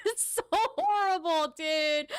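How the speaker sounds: high laughing squeal over the words; laughing hard. Real, not acted. Streamer cracking up at a mean retweet, laughing. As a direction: laugh through it, barely getting the words out.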